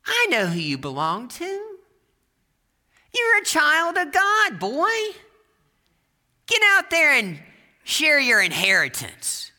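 very high, loud, drawn-out proclamation; triumphant preacher. Retold or imitated. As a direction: proclaim it to the boy with full force. Preacher triumphantly claims the boy, acted.

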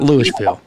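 Louisville with a sounded s, "LOO-ish-vil"; rejected pronunciation. Shown as a demonstration. Host agrees what it is not, Louisville with the s sounded. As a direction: sound the s in Louisville as a wrong version. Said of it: "it is not Louisville".

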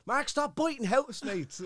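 slow, high announcement through laughter; laughing while imitating the show's voice; Big Brother voice. Show voice scolding Mark, laughing mock announcement. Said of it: "This is Big Brother".

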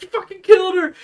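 high, loud, accusing shout; furious yell. Retold or imitated. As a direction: scream it at him in horror. Angry outburst in retold movie scene.

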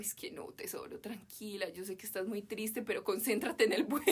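soft, hushed fatherly comfort; calm her down gently like a dad; soothing dad. Retold or imitated. Dad calming his crying daughter before the flight, softly.

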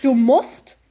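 "musst" stressed and lifted upward. Retold or imitated. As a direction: repeat it pointedly, "musst" rising. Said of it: "behaltet euch das Wort musst im Kopf". (nachdrücklich, „musst“ hochgezogen)

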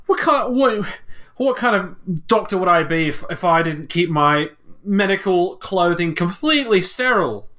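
flustered. Acted. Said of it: "He gets very, like, flustered".

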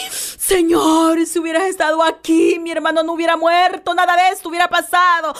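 mild tearful pleading; inconsolable plea. Acted. (Marta desconsolada suplica a Jesús)

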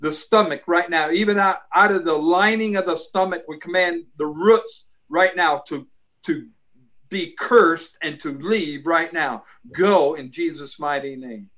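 firm commanding curse on illness; laying a curse. Acted. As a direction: curse it at the root, with authority. Cursing roots of ulcers in prayer.

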